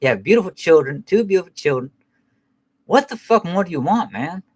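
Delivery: high-pitched imitated scolding; serious father. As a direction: play an exasperated father pleading with his son. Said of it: "whenever he get fucking serious with them".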